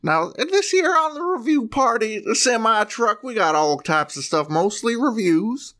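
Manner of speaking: high trucker radio voice. Acted. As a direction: hype it like a CB trucker. Trucker character pitch up.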